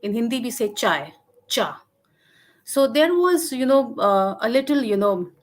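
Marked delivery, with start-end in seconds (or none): 1.5-1.8 short "cha" without the dip and rise; mid tone. Shown as a demonstration. Lecturer giving the Dogri word for tea, "cha" in mid tone. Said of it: "I had a mid tone, the second cha".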